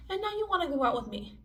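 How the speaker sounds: retelling the guy's invite with contempt; sarcastic disbelief. Retold or imitated. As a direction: rattle it off with scorn. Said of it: "that's crazy to me".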